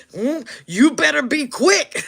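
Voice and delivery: high, slow laughing caution; laughing warning. Real, not acted. Warning about Chicanas, laughing high. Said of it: "laughing warning".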